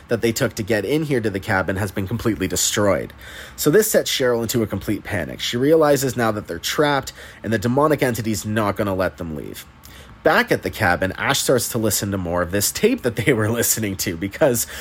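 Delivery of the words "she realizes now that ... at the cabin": ordinary talk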